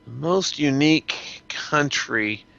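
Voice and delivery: slow whispered musing to himself; thinking whisper. Real, not acted. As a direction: whisper the question back while thinking. Musing over the question.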